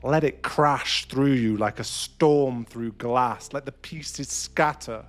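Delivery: impassioned build, slowing at the peak; building intensity. Acted. Urging the listener to let the rage crash through, building intensity.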